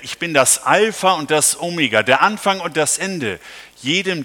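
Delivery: solemn scripture reading. Acted. Preacher reading Revelation to the congregation, solemn proclamation. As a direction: proclaim the verses with weight.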